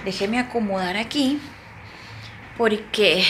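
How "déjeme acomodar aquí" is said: softer whispered aside. Real, not acted. Teacher noting her client arrived, whispering. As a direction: whisper it so she won't hear. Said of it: "whispered aside".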